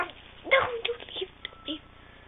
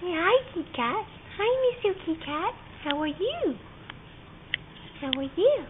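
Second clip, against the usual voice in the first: pet talk voice; 5 dB louder than usual. Real, not acted. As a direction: coo at the kitty. Greeting the cat.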